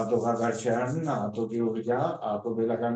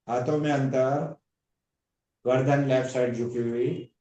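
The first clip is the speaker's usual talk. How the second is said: guided relaxation. Acted. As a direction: ease the class down limb by limb. Yoga teacher leads shavasana relaxation.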